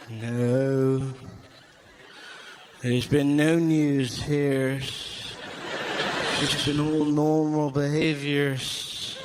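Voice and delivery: low, slow conspiratorial exchange; mock secretive chat. Mum and son talking news, low slow mock secrecy. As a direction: lean in, drawl it suspiciously. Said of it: "She's like".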